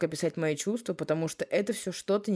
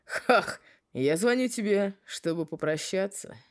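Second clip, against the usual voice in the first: smirking; 3 semitones higher than usual. Acted. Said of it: "Ухмыляясь, еле понятным голосом".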